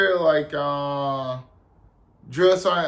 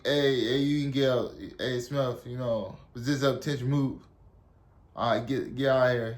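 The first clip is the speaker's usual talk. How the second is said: low, quieter mock sergeant letting someone off; pitying sergeant; 4 semitones lower, 4 dB quieter than usual. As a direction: gently dismiss a recruit, voice dropped. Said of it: "I guess he felt pity for me".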